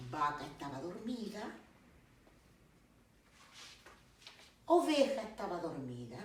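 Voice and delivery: narración pausada y expresiva de cuento; cuento infantil. Acted. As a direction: cuenta el cuento a los pequeños, animando las frases. (narración de cuento para niños)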